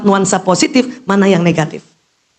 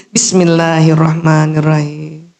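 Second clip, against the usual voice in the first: slow, devout basmalah; slow recitation; 5 semitones lower, slower than usual. Shown as a demonstration. Teacher guiding the mothers through the basmalah slowly. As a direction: draw each syllable out. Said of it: "Bu, lagi".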